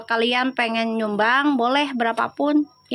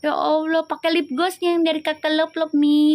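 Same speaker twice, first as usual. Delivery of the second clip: imitating daughter; 4 semitones higher than usual.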